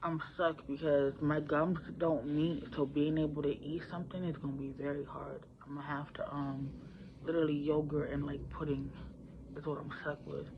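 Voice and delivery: words blurred, mouth half open; swollen mouth. Real, not acted. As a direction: speak through sore, swollen gums. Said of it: "I can't close my mouth all the way".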